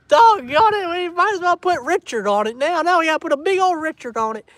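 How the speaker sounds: high, loud comic wail; mock exasperation. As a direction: complain loudly in fake despair. Mock dismay at Spike answer.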